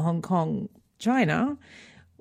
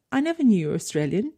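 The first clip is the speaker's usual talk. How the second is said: mild surprise; 3 semitones higher, faster than usual. Retold or imitated. English teacher finding out her daughter is Australian, mildly surprised. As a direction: imitate a teacher caught slightly by surprise.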